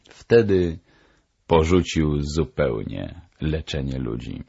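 ordinary delivery, nothing marked

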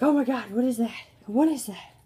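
high, loud startled cat voice, imitating the cats; voiced cat. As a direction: play the freaked-out cats, squeaky and loud. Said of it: "they're all like".

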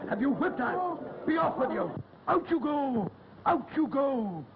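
angry squire shouting. Acted. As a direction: throw her out in a rage. Squire furious, throws her out.

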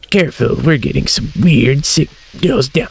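lightly mimicking the stiff military radio voice; hint of a gruff sergeant on the radio; mock radio commander. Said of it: "Why does he talk like this".

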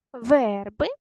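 Верби with a long stressed first syllable. Shown as a demonstration. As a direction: stretch ВЕР in Верби. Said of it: "Поставте наголос". (Верби з протяжним наголосом на ВЕР)

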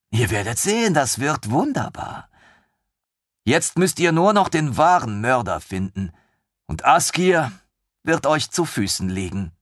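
put-on high, excited young officer; lieutenant thrilled by the idea; eager lieutenant. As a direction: bubble over with enthusiasm. Lieutenant beaming.

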